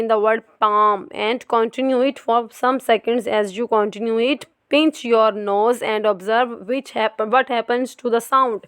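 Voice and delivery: very slow, careful reading from the book; textbook reading. Acted. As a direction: read each word out deliberately. Reads textbook aloud.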